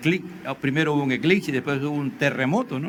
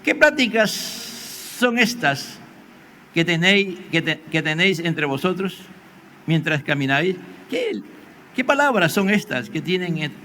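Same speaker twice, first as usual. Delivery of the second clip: Jesus asking gently; 2 semitones higher than usual. Acted. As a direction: let each word stretch, curious and calm. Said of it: "y le dijo".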